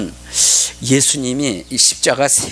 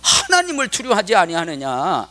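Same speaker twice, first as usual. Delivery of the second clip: mild acted reproach, raised pitch; rebuking; 5 semitones higher than usual. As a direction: lightly scold as a preacher quoting. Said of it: "욕한 그 사람을 꾸짖는 거예요". (약간 높여 꾸짖는 흉내)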